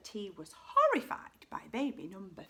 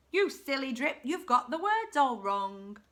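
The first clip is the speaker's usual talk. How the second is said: louder, mildly yelled telling-off; scolding yell; 3 semitones higher, 6 dB louder than usual. A narrator's reading. Others telling Drip off for singing wrong, mild yell. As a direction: yell it in a storyteller's contained way. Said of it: "the others yelled".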